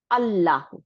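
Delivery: long double l in আল্লাহু; doubled lam. Shown as a demonstration. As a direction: hold the merged l in আল্লাহু, measured teaching demo. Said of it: "ঠিক same ওয়েতে".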